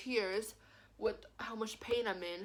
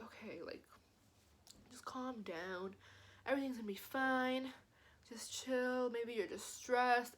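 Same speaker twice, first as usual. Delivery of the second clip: self-soothing whisper; 2 semitones higher, 6 dB quieter than usual. Retold or imitated. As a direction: talk yourself down gently. Calming herself down at night.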